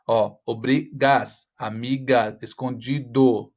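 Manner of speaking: obrigas, amiga, escondido drawn out to show the rhyme; slow rhyme drill. Shown as a demonstration. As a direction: stretch each rhyming end slowly. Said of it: "como ele vai combinando". (palavras lentas para mostrar a rima)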